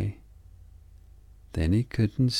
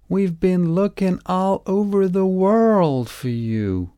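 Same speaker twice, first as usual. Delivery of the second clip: higher, louder relieved shout; shouting family; 11 semitones higher, 6 dB louder than usual. A narrator's reading. Family shouting down to Little Frog, higher and louder. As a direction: call out over the helicopter. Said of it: "they shouted".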